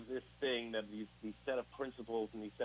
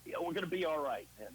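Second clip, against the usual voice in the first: higher, soothing mock reassurance; mock coddling; 4 semitones higher than usual. Mocking the coddling he never got, higher and sugary. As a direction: coo it like a pushover friend. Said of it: "There was no".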